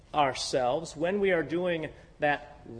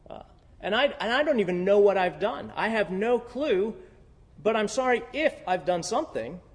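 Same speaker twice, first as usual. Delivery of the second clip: mock clueless apology; 3 semitones higher than usual. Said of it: "it's real".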